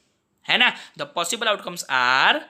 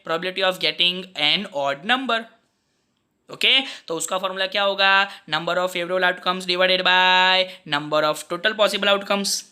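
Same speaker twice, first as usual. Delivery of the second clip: slow dictation; slower than usual. Acted. Dictating formula slowly.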